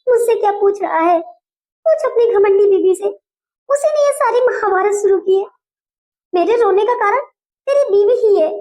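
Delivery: high, weepy complaining to her son; tearful complaint. Acted. Mother-in-law weeping to her son about his wife. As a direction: whine through tears about the daughter-in-law. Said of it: "आप इस तरह से रो क्यों रही हैं?".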